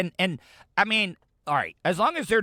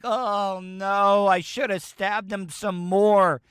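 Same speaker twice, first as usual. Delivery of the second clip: laughing through quote; 4 semitones higher, slower than usual. Retold or imitated. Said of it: "she's like".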